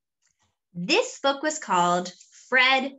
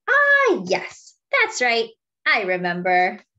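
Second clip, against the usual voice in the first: forgetful elephant; 3 semitones higher, 5 dB louder than usual. Acted. Fred the elephant agreeing with Monkey, lightly voiced and muddled.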